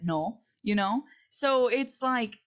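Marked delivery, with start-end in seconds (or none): 0.0-0.4 Spanish accent. Shown as a demonstration. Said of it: "they say in Spanish with a little accent".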